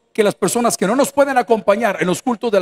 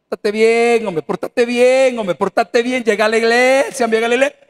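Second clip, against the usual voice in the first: mock nagging. Preacher imitating someone urging a relative to behave, mock nagging. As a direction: nag them in long, stretched-out words.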